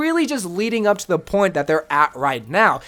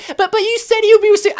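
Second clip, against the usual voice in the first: high, fast, stammering mock complaint; hammed-up whiny accusation; mocking whiny fan; 13 semitones higher, 4 dB louder, faster than usual. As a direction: whine it like an annoyed viewer catching you out. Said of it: "don't come back to this video and say".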